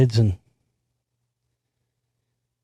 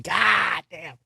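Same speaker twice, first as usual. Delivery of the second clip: drawn-out, higher-pitched groan of dismay; mock despair, higher and trailing away; exasperated letdown; 5 semitones higher, 7 dB quieter than usual. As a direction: stretch out GOD like a let-down kid, then drop off softer. Acted childhood letdown at the telethon.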